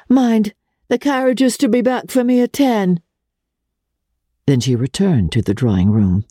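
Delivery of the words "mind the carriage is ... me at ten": high call from the door; calling from the doorstep. A narrator's reading. Madame Olenska calling to her aunt's coachman, a high call. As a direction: send the order out after the departing carriage. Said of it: "called from the doorstep".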